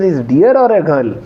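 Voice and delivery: asked through a real laugh; laughing question. Real, not acted. Teacher joking to the class, laughing. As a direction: chuckle as you ask it, amused. Joking about Bharat's romantic words.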